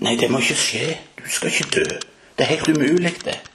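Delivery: mock Peter's alarmed objection; a disciple refusing to accept it; Peter protesting. Peter protests Jesus' death.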